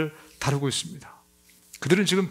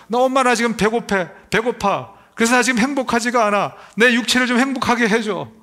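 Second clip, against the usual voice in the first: lightly voiced baby whining for mom; a hint of a fussing infant, a little higher; whiny baby voice; 5 semitones higher, 3 dB louder than usual. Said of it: "막 웁니다". (기저귀 갈아 달라고 엄마에게 살짝 칭얼대는 아기 흉내)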